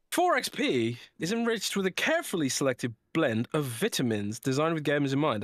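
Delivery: lilting, emphatic sponsor read. Acted. Podcast host reading the sponsor's drink ad, emphatic ad read. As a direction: sell it with swooping stress on key words.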